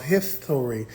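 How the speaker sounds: "history" said with an f for the s; mock-literal "history", long s read as f; old spelling read literally. Shown as a demonstration. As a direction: say "history" as hif-tory. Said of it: "see how it's spelled different".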